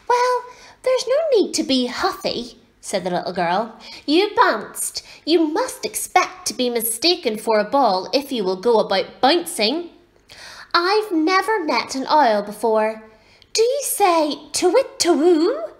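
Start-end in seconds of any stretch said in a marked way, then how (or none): 0.1-2.6 put-on very high child's voice; retorting little girl. A narrator's reading. Little girl tells off the owlet, high-voiced retort. 4.0-15.7 put-on high, lively child's voice; little girl, forthright. A narrator's reading. Little girl quizzes the owlet about owls, forthright and high.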